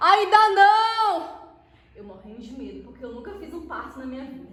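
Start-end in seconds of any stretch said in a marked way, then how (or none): 0.0-1.4 very high, loud shout, não drawn out. Retelling a birth she attended, answering a question: imitating her own past shouting. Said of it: "E eu gritava".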